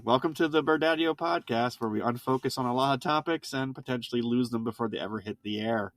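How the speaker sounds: upbeat radio announcer welcome; a hint of an on-air host. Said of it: "I sound like a radio person".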